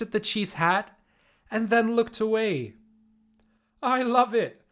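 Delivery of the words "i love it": uncle laughing, hooting his praise; hooting with delight. Acted. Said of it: "Fred hooted".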